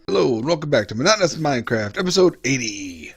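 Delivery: quick, brisk show greeting; fast intro. Acted. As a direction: rattle off the opening line. Clip montage of episode intros.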